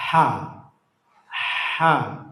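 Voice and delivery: "Ha" with breath forced through a slightly narrowed mid-throat; letter ha demonstrated. Shown as a demonstration. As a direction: let breath flow freely into "Ha", no rasp. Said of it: "cara mengucapkan". ("Ha" dengan tenggorokan tengah sedikit menyempit)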